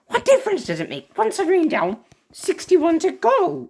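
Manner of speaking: high, gleeful villain taunt; gloating villain voice. Acted. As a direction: relish the count, slowing down at the end.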